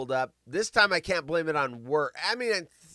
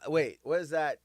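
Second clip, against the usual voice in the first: ordinary delivery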